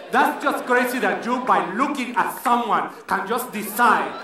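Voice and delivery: put-on lightly accented offended rant; a touch of an offended Latina accent; indignant Latina. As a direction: complain in a mild Latina accent. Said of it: "acted indignant Latina".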